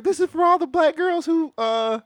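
lightly imitating a tearful speech; teary acceptance speech. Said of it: "She was like".

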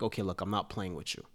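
mildly stern, no yelling; calm, no-nonsense coach in a retelling; understated stern. Retold or imitated. Player imitates coach who means business without yelling, understated stern. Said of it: "It's just more in a stern".

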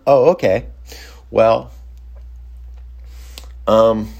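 a touch of mock surprise; taken aback. Retold surprised compliance.

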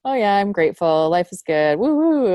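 hammed-up breezy cheer, woo-hoo jumps high and loud; mock cheerful. Host mocking empty gratitude talk, hammed-up cheer.

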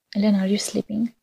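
hushed whisper so nobody wakes; night whisper. Retold or imitated. Boy climbs into her bed at night, whispering. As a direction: breathe the question under your breath.

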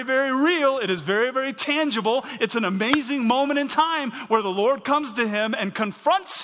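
loud, high pulpit delivery; fiery sermon climax; impassioned preaching. Real, not acted. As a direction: preach it full force. Preaching at full force.

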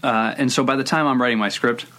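talking through a mouthful; words round a bite of food; mouth full. Real, not acted. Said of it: "I have something in my mouth".

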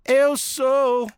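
slow, stretched radio host opening; podcast host intro. Acted. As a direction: announce the show like a radio host.

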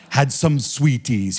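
slow, imitated storyteller delivery; Reinhard Bonnke. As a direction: draw it out as the evangelist. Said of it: "he said it like that".

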